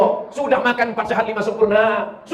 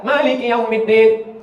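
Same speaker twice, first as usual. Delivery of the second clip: Maliki Yaumiddin chanted slowly; slow recitation; slower than usual. Shown as a demonstration. Preacher reciting the verse, slow. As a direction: recite it with care. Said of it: "Kesalahan orang satu".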